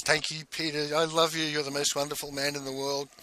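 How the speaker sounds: lightly voiced adoring wife; a touch of tender gratitude, mimicked. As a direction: imitate a loving wife's thanks, gently. Wife thanking husband, voiced in story.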